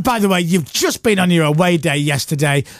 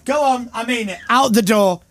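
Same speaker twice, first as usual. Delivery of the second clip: raised voice, ordering them out; mock angry shout; 6 semitones higher than usual. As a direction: bark them out of the room, half in jest. Ordering both out of studio.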